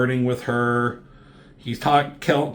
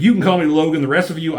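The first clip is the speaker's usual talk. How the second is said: Wolverine voice; 5 semitones higher, 5 dB louder, much faster than usual. Retold or imitated. Wolverine quoted, gruff intro.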